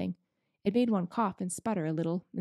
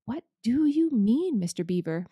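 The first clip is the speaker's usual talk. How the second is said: panting; 3 semitones higher, 4 dB louder than usual. Acted. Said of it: "panted Peter".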